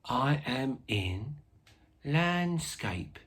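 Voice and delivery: chatty informal pupil-like presenter; Ernie. Acted. Teacher plays Ernie, a helper.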